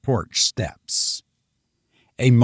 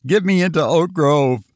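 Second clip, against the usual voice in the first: gasped; 5 semitones higher than usual. Acted. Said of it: "Lois gasped".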